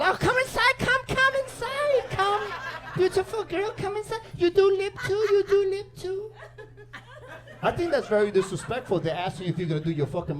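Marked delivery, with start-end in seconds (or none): 0.0-6.3 put-on high Asian salon lady accent, slow sing-song; sing-song Asian accent welcoming customer; Asian nail lady accent. Nail salon lady greeting clients in Asian accent. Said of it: "they're always fucking happy".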